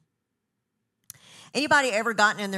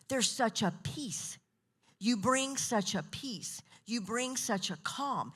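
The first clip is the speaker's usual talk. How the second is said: calm sincerity; 2 semitones higher, 5 dB quieter, slower than usual. Retold or imitated. Quotes people praising their peace.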